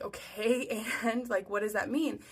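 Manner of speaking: mildly exasperated follow-up question; insistent asking. Retold or imitated. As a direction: press him for an explanation. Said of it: "And I keep asking him".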